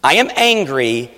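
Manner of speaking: I am angry, stressing am; slow owning confession; slow, deliberate confession. Shown as a demonstration. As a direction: own it, say am slowly. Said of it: "you gotta own this".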